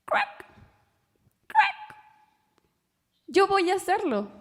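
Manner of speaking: very high, squeaky little frog; tiny little voice. Acted. Little frog under the rock volunteers, in a very high squeaky voice. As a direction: croak it out like a tiny brave frog. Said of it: "una pequeña vocecita salió".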